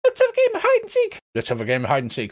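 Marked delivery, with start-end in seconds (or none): 0.1-1.2 tiny, very high pixie voice; squeaky pixie. Acted. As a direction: squeak it like a little flying pixie. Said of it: "They come over and go".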